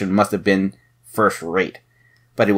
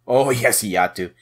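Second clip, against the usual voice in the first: gloating laugh. Acted. Lafont gloating over his discovery.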